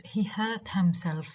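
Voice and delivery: "hurt" stressed, "himself" left unstressed. Shown as a demonstration. Teacher showing an unstressed object pronoun, stress on "hurt". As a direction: put the sentence's only stress on "hurt". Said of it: "the only stress in this sentence is on the verb hurt".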